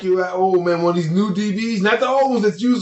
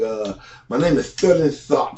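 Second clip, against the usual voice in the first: big tongue voice. Retold or imitated. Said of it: "the one with the big tongue".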